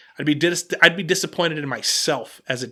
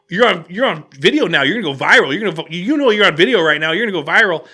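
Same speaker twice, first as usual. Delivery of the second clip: retold taunt, pushed louder; aggressive goading; 5 dB louder, faster than usual. Customer with the camera threatening employee, aggressive goading. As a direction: egg him on insistently. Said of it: "pretty aggressive and egging this dude on".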